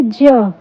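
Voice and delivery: "ज" as a j sound with short vowel; letter sound demo. Shown as a demonstration. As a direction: sound out "ज" for learners. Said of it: "J की sound होती है".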